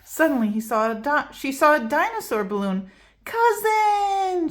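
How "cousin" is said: shout. Acted. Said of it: "she shouted".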